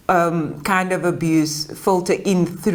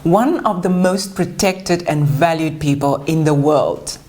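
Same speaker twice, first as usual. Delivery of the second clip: measured, carefully phrased read-aloud biography; formal introduction; 3 semitones lower than usual. Acted. Host introducing a guest to an audience, formal read.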